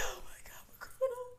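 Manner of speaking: high, breathless whispered panic; panicked whisper. Retold or imitated. Telling friends about finding the gun, whispered panic. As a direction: whisper it like you've been caught.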